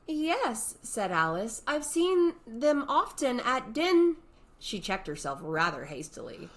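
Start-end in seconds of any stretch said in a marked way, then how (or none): 0.1-4.2 put-on young girl voice. Alice checks herself.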